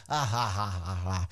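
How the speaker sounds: low, soft imitation of a belly laugh; mock big laugh. Retelling Brock's big laugh to viewers, mock low laugh. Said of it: "Brock does this big laugh thing".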